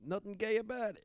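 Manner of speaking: high Italian-American wise guy echo; mock mobster. Friend echoing the mobster bit, Italian-American accent. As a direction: echo the gangster line.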